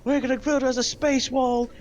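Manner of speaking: joking American leader announcing a space wall; bad American accent. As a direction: campaign like a blustering American president. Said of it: "I can't do an American accent".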